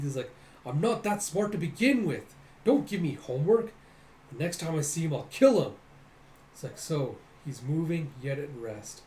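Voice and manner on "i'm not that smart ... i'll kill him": irritated, a bit higher and louder; gritted-teeth anger. Retold or imitated. Fighter fuming over a rival's riddle, mock-angry. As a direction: grumble it with mild mock anger. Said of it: "gritting his teeth".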